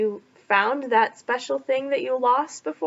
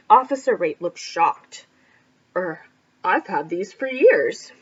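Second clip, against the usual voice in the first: panicked shout; 3 semitones lower than usual. A narrator's reading. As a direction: shout like you've just been robbed. Reads story aloud to class.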